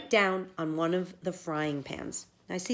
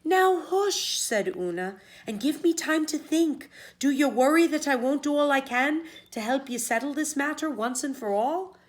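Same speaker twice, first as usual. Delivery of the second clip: higher, firm hush to her husband; Una hushing; 7 semitones higher, 3 dB louder than usual. Acted. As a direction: settle him down with a sharp hush. Una voiced, calming husband.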